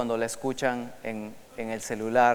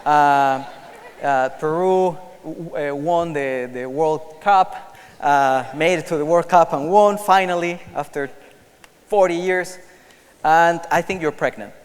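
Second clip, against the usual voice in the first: Alexa reading the news; 2 semitones higher, 5 dB louder, slower than usual. Acted. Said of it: "Alexa comienza a hablar".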